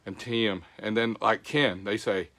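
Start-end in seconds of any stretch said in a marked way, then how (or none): 0.2-0.6 Tim drawn into extra syllables, Georgia style; Georgia accent. Shown as a demonstration. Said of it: "It has more syllables". 1.4-1.8 Ken stretched into extra syllables, Georgia style; Georgia accent. Shown as a demonstration. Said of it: "It's got a lot of syllables".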